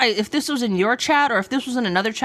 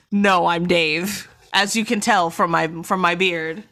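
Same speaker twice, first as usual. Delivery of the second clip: a mild mock voice drop, slow and a touch lower; 3 semitones lower than usual. Harry claiming to be Dave, a half-hearted slow voice drop. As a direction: let the voice sink a little and stretch the words out. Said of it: "his voice just drops".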